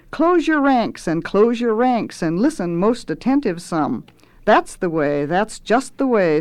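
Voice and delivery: lightly voiced lordly cook; pompous cook rallying his underlings; cajoling chef. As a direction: coax the kitchen boys to gather. Reads Swelter's speech aloud.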